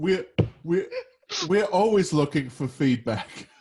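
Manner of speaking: put-on swooping Australian-accented speech. In an acted scene about joining an organization, speaking in an Australian accent. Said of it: "I don't know how I went Australian there".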